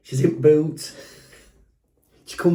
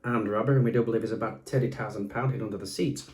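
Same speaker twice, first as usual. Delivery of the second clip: a lower, official police caller; fake police officer voice; 4 semitones lower, 7 dB quieter than usual. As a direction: play it straight like a copper on the phone. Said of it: "So I did it in that voice".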